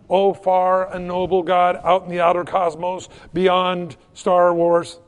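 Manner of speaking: hammed-up grand invocation; mock grandeur. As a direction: overblown awe at a distant God. Mocks a distant grand God.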